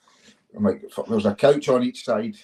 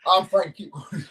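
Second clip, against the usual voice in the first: dazed coach; 8 semitones higher, slower than usual. Retold or imitated. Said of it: "He's like".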